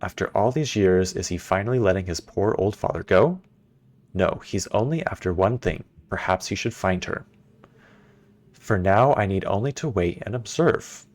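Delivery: lightly voiced haughty father reading his journal; a hint of a scornful old ruler, unhurried; journal-reading villain. Reads Gehn's journal aloud.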